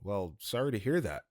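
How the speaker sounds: mildly lost for words; bewildered. Retold or imitated. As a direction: imitate an awkward, thrown-off reply. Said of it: "I was just bewildered".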